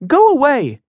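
high, loud yell to the crowd; angry shout. Acted. Emmy orders the gathered crowd away, loud angry shout. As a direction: drive the onlookers off with a shout. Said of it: "she said".

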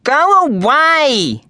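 sleepy growl, high and slow; grumpy sister growling go away. A narrator's reading. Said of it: "turned to the wall and growled at him".

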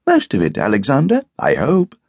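happy. A narrator's reading. Guest teases Alec over a long breakfast, happily. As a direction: answer happily, lifting the pitch. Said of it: "Roger replied happily".

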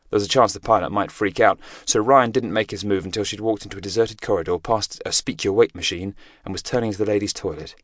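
plain reading voice

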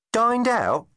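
perking up. A narrator's reading. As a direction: perk up at the thought of food. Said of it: "asked Tegs, perking up".

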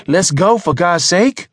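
high, loud, frantic plea; urging. Acted. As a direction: urge the driver to flee at once. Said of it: "Mister Barron urged".

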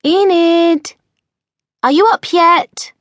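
put-on a young witch calling her friend through the door; Enid calling softly. A narrator's reading. Enid calls friend Mildred through the door, high girlish voice. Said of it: "she called softly through the door".

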